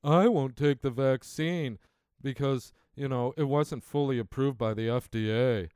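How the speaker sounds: mocking the hesitant. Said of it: "I cringed every time someone said".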